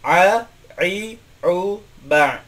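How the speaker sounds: "A, I, U, ba" with a tight squeezed throat onset on each vowel; teacher drills the ain letter for students; Arabic ain demo. Shown as a demonstration. Teacher drilling ain aloud, squeezed throat onset. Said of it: "Pertama huruf ain".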